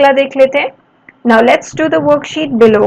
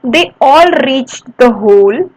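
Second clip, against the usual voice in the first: put-on slow, clear read-aloud for kids; storybook reading pace; slow story reading; much slower than usual. Shown as a demonstration. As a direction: read each word slowly for the class. Teacher reads story slowly.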